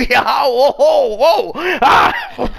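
laughing cheers. Real, not acted. Laughing triumph.

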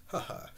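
small, soft "ha ha"; a token laugh read from the script. Acted. Happy laughing with Stanley, small read-out laugh. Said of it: "Happy laughs".

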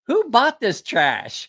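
father-in-law scorning the knife; mock indignant. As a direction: drag out a disgusted question. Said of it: "he's like".

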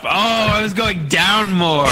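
surprised realisation. Real, not acted. Sudden realisation, higher, slow.

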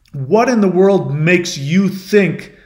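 slow, emphatic indignant demand; mildly furious storyteller's quote; retold fury. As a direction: throw someone off with stressed, slow words. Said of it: "he gets furious at this".

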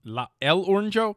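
El Oronjo said with a Spanish lilt, as "el oh-RON-ho"; rolling out El Oronjo like a Spanish title; mock Spanish name. Shown as a demonstration. Host trying out a joke name for Trump, mock Spanish. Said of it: "Can I say El Oronjo?".

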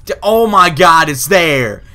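high, loud excited cry; near-win excitement; thrilled shout at the lock. Real, not acted. Excited at lock nearly open.

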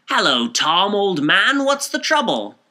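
loud, rising hail across the bar; calling out. A narrator's reading. Mister Power calling to Tom across the bar, loud and high. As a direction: call out to a friend from far off, high and loud. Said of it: "he called out".

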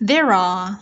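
THERE ARE linked through the R. Shown as a demonstration. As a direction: run "There are" together as one word. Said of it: "phụ âm R nối".

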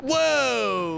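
high, drawn-out falling whoa; shocked exclamation. Real, not acted. Gamer reacting to trash talk, long shocked exclamation. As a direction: cry out and let it slide down.

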